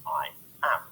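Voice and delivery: "I am" with the weight on AM; light "I", stressed "am"; iambic stress. Shown as a demonstration. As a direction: say "I am" slowly, weak then strong. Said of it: "pronounced just like the phrase".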